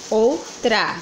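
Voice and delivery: "Outra" split into "ou" and "tra"; syllable by syllable. Shown as a demonstration. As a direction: separate "Outra" into two beats, ou, tra. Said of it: "Então, sílaba mais forte". ("Outra" dividido em "ou-tra")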